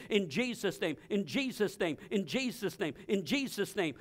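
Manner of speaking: soft, low, weary repetition; hushed prayer under the breath; quiet repeated prayer. Retold or imitated. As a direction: murmur it over and over. Repeating the name while sick.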